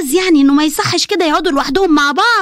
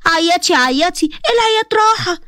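mock sympathy; slower than usual. Mocking Hanan who goes to cry.

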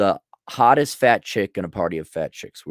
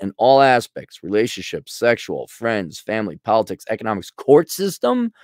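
reading it through. Real, not acted. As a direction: read item by item, rising into disbelief. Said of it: "okay, let me read through it".

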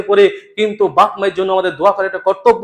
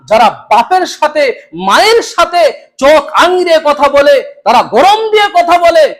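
rising indignation; 5 semitones higher than usual. Acted. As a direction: climb into outrage. Denouncing sons who scold parents.

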